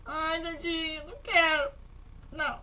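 whiny fake cry, slow and drawn out; mock sobbing. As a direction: pretend to sob over the poor frog. Doesn't want to sacrifice frog. (choro fingido e arrastado, com pena do sapo)

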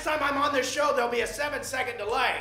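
laughing apology. Real, not acted.

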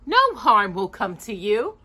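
high, sugary false kindness; sweet old witch. Acted. Old witch welcoming the lost children, sugary.

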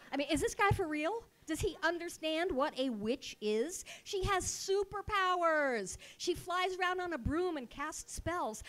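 exasperated, emphatic outburst; indignant disbelief. Retold or imitated. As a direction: protest as if he's an idiot. Outrage at the director.

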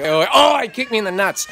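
sudden high yelp, easing off; pained yelp. Real, not acted. Yelps as the boy kicks him.

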